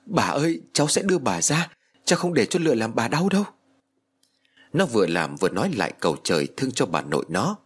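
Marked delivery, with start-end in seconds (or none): 0.1-3.4 tense. Acted. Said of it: "Mặt mũi nó căng thẳng".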